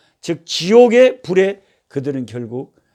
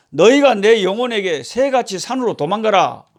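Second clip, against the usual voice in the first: higher-pitched imitation of scoffers; mocking jeer; 5 semitones higher than usual. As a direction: act out the wicked taunting the believer. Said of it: "이렇게 조롱을 하는 거예요". (조롱하는 자 흉내)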